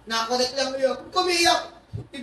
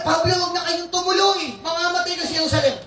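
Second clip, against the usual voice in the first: mock pleading warning, a little higher; a light pleading voice, higher and louder; pleading prophet warning; 5 semitones higher, 4 dB louder than usual. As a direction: beg him not to go. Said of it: "Sabi niya".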